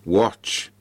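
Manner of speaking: drawn-out spirit's command; ghostly voice. Acted. Ghost shows the team a screen, drawn-out command. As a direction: command it as the apparition. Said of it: "said the voice".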